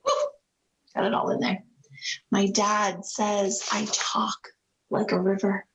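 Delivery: gentle picture-book narration; story reading. A narrator's reading. Reads picture book aloud.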